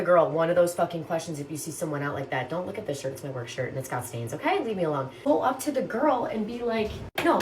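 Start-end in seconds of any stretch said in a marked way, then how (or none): 2.5-5.1 mock self-conscious mumble. Acting out embarrassed self.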